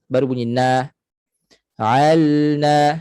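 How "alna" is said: ALNA with a distinct, slightly held L; clear lam. Shown as a demonstration. Teacher demonstrates articulation point, clear lam. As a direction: finish the L before saying NA in alna. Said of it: "kena nyatakan lam".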